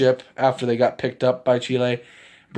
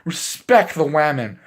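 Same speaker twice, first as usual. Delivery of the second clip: much higher put-on voice, protective and firm; Broly voice; 10 semitones higher, slower than usual. Broly telling off the drunk guy, high put-on voice. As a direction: play Broly defending the woman, pitched way up. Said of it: "Broly, my boy, was like".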